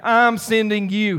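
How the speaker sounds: "I'm sending you" slowed for moderate emphasis; emphatic. Acted. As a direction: lean steadily on each word of "I'm sending you". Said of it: "That's emphatic".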